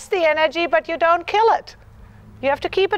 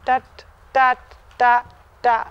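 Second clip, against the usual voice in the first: rhythm chant; 6 semitones lower than usual. Shown as a demonstration. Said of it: "have a steady rhythm".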